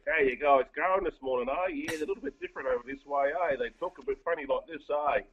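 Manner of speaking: a lightly played Toowoomba accent; put-on Toowoomba accent. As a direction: ham up the Toowoomba accent, tagging eh onto everything. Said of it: "I'll put on a bit of a, a Toowoomba accent for you".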